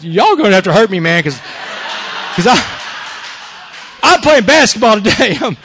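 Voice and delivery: acting out a cracking tough front; squeaking fake-tough voice. Cornered player tells the angry court he's playing, squeaky fake-tough. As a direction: imitate putting on toughness through panic. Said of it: "in the toughest voice I could, I was squeaking and cracking my voice".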